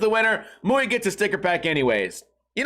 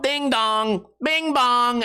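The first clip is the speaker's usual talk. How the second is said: raised, singsong chime; doorbell imitation; 4 semitones higher, much slower than usual.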